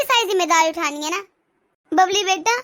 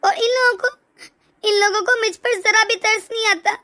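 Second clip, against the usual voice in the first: crying. Acted. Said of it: "इसमें भला रोने वाली क्या बात है?".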